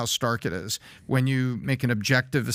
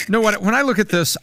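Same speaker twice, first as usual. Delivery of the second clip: higher and louder, laughing into it; Bill Clinton voice; 7 semitones higher, 5 dB louder than usual. Pretend. Urged to speak in his Bill voice, laughing. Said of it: "he actually sounds like, uh, Bill Clinton".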